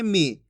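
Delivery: brief, low "मी"; "मी" kept short as a reading model; short i sound. Shown as a demonstration. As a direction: say "मी" with a short falling vowel. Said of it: "इसके उच्चारण में कम समय लगेगा".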